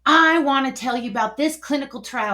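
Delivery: annoyed, determined to be heard; retold annoyance. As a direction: push in firmly, a bit annoyed. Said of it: "because I was already annoyed".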